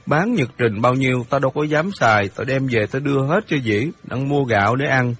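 a hint of a hurt boy defending himself; lightly voiced aggrieved boy Hiệp. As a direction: plead your case, mildly worked up.

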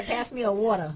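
New York "water"; New York accent. Shown as a demonstration. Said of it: "That's how we say water".

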